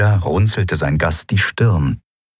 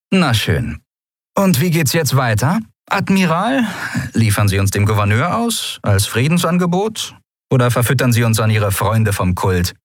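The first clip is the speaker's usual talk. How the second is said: higher, fast needling question; Sephiron, mocking; 5 semitones higher than usual. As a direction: poke at the admiral with a rising jab.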